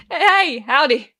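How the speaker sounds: loud, slow, overdone welcome; forced cheerful howdy. Acted. Bartender caught off guard greeting the pianist, slow and loud. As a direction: cover the surprise with big cheer.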